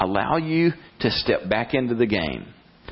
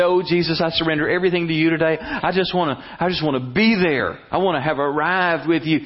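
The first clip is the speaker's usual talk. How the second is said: higher, breathless gushing prayer; mock earnest prayer; 5 semitones higher than usual. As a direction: gush it out like a new convert. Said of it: "You can say".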